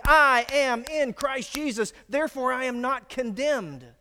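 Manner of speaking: loud, high, every word of "I am in Christ Jesus" punched; emphatic declaration. Shown as a demonstration. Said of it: "And you say emphatically".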